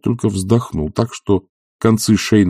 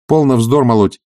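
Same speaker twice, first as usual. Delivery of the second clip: irritated dismissal; 5 semitones higher, 6 dB louder than usual. Acted. Oblomov dismissing.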